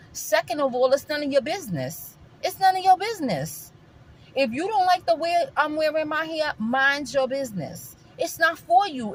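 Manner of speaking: worked-up clap-back, pitch climbing; indignant retort. Acted. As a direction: put a nosy critic firmly in their place. Imagined retort to a critic.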